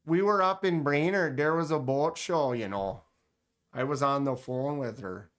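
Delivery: lightly put-on Minnesota accent; Fargo lady cop. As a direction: imitate a small-town Minnesota police officer's accent. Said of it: "Your accent imitation is her, the lady cop from Fargo".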